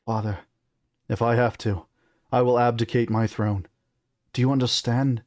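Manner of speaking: put-on determined British-accented prince. Son threatens to abdicate, British accent. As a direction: state the ultimatum in a British accent. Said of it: "on the British accent".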